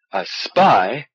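a sudden startled outburst; blurted. Acted. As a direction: blurt it out in alarm. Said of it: "Sleet blurted".

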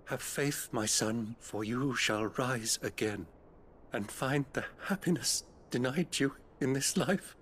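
blessing. Acted. Priest blessing the dying bearer, gentle and calm. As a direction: give him peace with your words.

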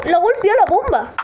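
high cries building into frantic no-no-no; alarmed gamer yelling; escalating panic. Real, not acted. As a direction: climb into a high, panicked wail. Bomb going off nearby.

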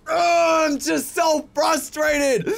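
slow, exasperated outburst; frustrated. Real, not acted. Real frustration after falling down the mountain. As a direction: drag it out, fed up.

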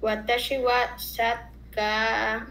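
"sakka" repeated slowly with the double k; student slowly copies "sakka"; careful repetition. Shown as a demonstration. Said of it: "Me repiten, por favor".

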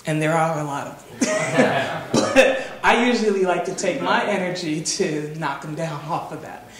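chuckling through the words; laughing. Real, not acted. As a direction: laugh while saying it. Laughing at elitist people.

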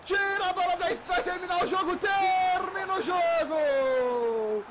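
slow, stretched final whistle shout; excited shouting. Real, not acted. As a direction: drag out the final score. Fim de jogo. (anúncio do placar gritado e arrastado)

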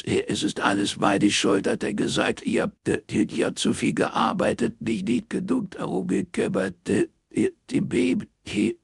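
high-pitched distraught stammer; crying, words caught between gulps; sniffling, hiccuping sobs. A narrator's reading. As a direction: wail it out in broken bursts. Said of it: "zerschniefen, schlucken und hexen".

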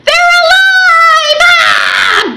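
big high excited cry; sudden squeal of delight; bees burst out. Pretend. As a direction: throw it up high like a surprise. Rhyme climax, bees burst out.

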